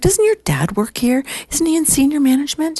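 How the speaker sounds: very high, pointed questioning; no-BS secretary. Retold or imitated. Secretary confronting young woman about dad, pointed. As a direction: imitate her needling the young one. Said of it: "she's like, no B S".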